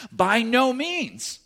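high, slow, drawn-out denial; emphatic rebuttal. Acted. Preacher giving Paul's answer, slow emphatic denial.

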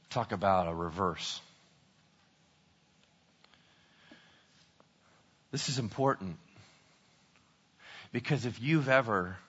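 low, hushed, grave sermon voice; sober, quiet pulpit delivery; solemn preaching. Real, not acted. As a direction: let the bad news land softly. Preacher turns solemn after comic retelling.

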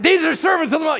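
very high, loud repeated cry; hammed-up possessed girl yell. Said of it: "she keeps doing it".

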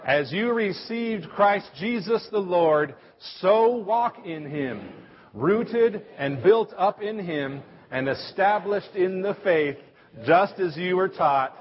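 slow, measured recitation with the congregation; group recitation. Shown as a demonstration. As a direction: recite each phrase slowly, word by word. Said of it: "Everybody together".

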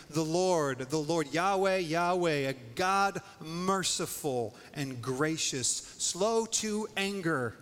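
loud, ringing proclamation of the name; booming proclamation; proclaiming. Acted. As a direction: call out Yahweh with full force.

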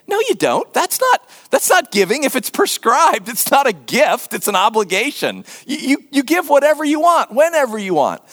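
a hint of a protesting Greek believer; indignant Greek objector. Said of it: "Greeks in the same church saying".

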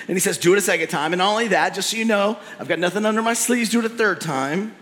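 Elijah's commands. Acted. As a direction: command the water be poured, a bold prophet showing off. Preacher voices Elijah ordering water.

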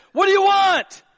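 high, loud confronting shout; calling them out. Acted. Jesus turning on his stalkers, confronting shout. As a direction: shout it at your followers. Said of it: "he calls them out".

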